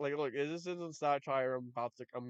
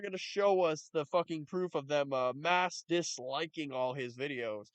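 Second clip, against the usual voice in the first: mocking repeat; 3 dB louder than usual. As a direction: drag it out to mock him. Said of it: "so he's gonna say that".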